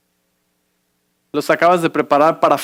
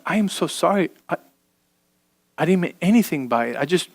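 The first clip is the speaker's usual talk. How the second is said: quietly apologetic, voice dropped; hushed, sincere apology; soft apology; 6 dB quieter than usual. Acted. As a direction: say sorry gently, almost under your breath. Husband apologises to wife.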